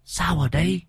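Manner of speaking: put-on high, eerie wailing ghost child; thin spectral voice rising out of the medium's throat; raspy ghost voice. A narrator's reading. Possessed medium speaking as the ghost of a dead girl, eerie high wail. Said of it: "phát ra âm thanh khe khé".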